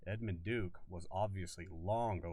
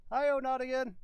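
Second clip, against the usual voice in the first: much higher and louder comic cry; loud cartoon yelp; 10 dB louder than usual. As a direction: squeal it like a cartoon sidekick. Cartoon exclamation in story.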